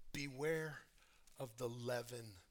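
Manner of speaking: soft, sinking to a whisper at the end; quiet warning. Acted. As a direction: warn them low and grave. Jesus warning his disciples quietly.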